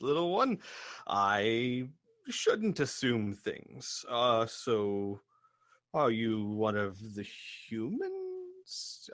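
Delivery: lightly voiced giant, apologetic with swooping pitch; slow, wondering gentle giant; courteous giant. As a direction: apologise kindly, stretching out the words. Giant apologises to the little one.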